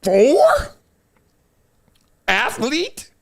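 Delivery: high laughing question; delighted laughing six four. Real, not acted. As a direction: laugh through it. Laughing at the height.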